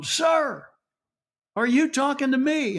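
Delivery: acted, high-pitched, called-out yell. On stage, retelling yelling into the microphone at a boasting man. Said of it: "I yelled into the microphone".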